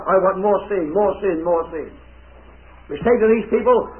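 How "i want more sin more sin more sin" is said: a sinner craving, sinking away; greedy sinner. Retold or imitated. Sinner demanding more sin.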